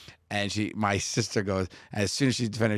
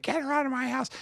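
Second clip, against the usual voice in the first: mom's high-pitched fury. Retold or imitated. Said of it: "She's like".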